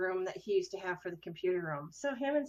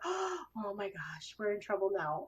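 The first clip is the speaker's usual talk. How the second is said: shocked; 5 dB quieter than usual. Retold or imitated. Daughter's shocked reaction retold.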